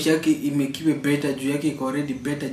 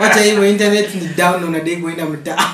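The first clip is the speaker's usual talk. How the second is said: laughing; 2 semitones higher, 6 dB louder than usual. Real, not acted. Laughing while imagining scenario.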